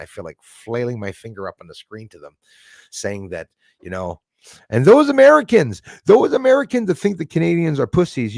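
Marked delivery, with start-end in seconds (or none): 4.7-8.4 high, loud call-out; shouting at Americans. Real, not acted. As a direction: yell across the border at them. Calling out to Americans.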